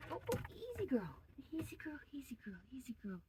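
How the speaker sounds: calm her with a whisper; soothing whisper. Real, not acted. Soothing a squirming rabbit.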